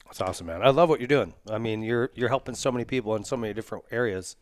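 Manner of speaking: talking while chewing a bar; mouth full. Real, not acted. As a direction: speak through a mouthful. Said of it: "Sorry, I'm chewing on your".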